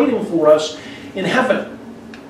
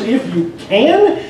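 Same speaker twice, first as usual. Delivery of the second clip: slow, drawn-out, doubting "If you can"; Jesus echoing the father, mildly sarcastic and slow; 4 semitones higher, slower than usual. Retold or imitated. Jesus throws the father's doubt back, mildly sarcastic. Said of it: "you can hear almost the sarcasm in his voice".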